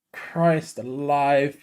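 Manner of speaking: drawn out, hushed disbelief; slow low mutter of shock; slow stunned murmur. Real, not acted. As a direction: let it sink in slowly, under your breath. Stunned by the goal.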